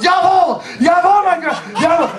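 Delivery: high, shouted German mock salute; shouted Jawohl. Table full of Germans joking along, high shouting. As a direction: imitate a rowdy table barking German orders for laughs. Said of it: "conversation was filled with".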